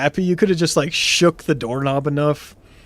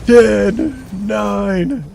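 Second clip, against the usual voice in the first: higher, louder stern dad countdown; dad counting down; 5 semitones higher, 4 dB louder than usual. Retold or imitated. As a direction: count down like a dad warning a kid. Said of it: "I felt like a dad counting down".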